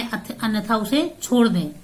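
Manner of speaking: ordinary talk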